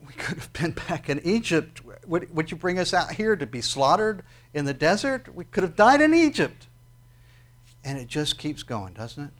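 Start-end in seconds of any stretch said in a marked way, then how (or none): 0.1-6.7 higher whining, rising to a loud high wail at the end; grumbling complaint. Retold or imitated. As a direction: complain like people who regret leaving. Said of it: "start grumbling and complaining".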